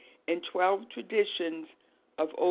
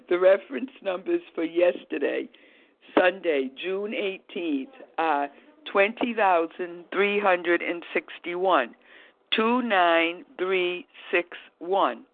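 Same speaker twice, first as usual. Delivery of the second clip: slow, louder reading off the script; teleprompter read; 4 dB louder than usual. Real, not acted. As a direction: read each number carefully from the page. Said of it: "I'm reading from the script".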